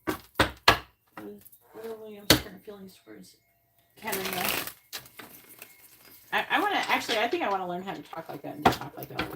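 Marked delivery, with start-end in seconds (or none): 0.0-4.5 slow, louder, regal Red Queen demand. Pretend. Demanding an answer from the tarot like the Red Queen. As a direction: command it like the Queen of Hearts. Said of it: "Red Queen on Alice in Wonderland".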